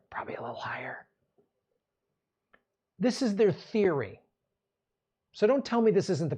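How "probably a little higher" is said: whispered aside. Real, not acted. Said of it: "aside whisper".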